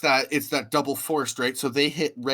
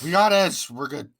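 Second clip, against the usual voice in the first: higher, smug; mock bookers; 5 semitones higher, 5 dB louder than usual. Voicing bookers relying on Edge, smug mock. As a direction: shrug it off smugly.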